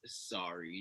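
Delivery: soft, small mock apology; answering mom at the door, meek and soft; sheepish sorry. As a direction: mumble it like a caught kid. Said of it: "And I was like".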